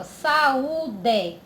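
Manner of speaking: "Saúde" said connected, each vowel clear; whole word. Shown as a demonstration. Teacher showing vowels together, "Saúde" said as one word. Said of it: "Tão juntinho na mesma".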